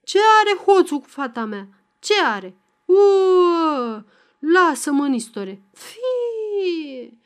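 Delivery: high, loud outcry breaking into a long wail; enraged protest. A narrator's reading. Father dragged away raging about his daughter, shouting and wailing. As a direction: struggle against restraint, ending on a drawn-out high cry.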